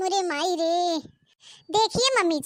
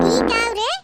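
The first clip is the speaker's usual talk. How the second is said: a loud, shocked outburst; outraged shout; 6 dB louder than usual. Acted. Mother-in-law smells the fart, outraged shout. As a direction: blurt it out in disgust.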